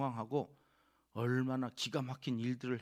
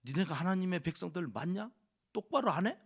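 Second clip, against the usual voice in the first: scolding that builds to a loud, higher yell on 똑바로 안 해; angry shout; 4 semitones higher, 3 dB louder than usual. Retold or imitated. Ezra imagined scolding the people, building angry shout. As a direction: rebuke the people, rising to a bark. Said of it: "소리를 지르고".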